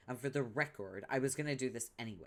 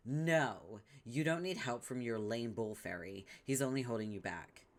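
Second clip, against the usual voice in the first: ordinary talk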